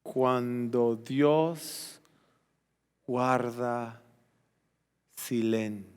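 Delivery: low, soft words with long gaps; slow, hushed gravity. Real, not acted. Preacher telling congregation God keeps silence, hushed and slow. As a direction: leave silence after each phrase. Dwelling gravely on God's silence.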